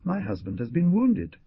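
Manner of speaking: high, loud desperate plea; screaming for help. A narrator's reading. Wife bursting into the pharmacy, screaming. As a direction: burst in begging for rescue. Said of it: "Dolores screaming".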